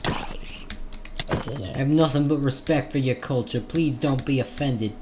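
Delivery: mock British accent drifting worse; shifting British accent. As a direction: keep the mock British voice while joking about it. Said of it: "My accent is shifting and getting worse".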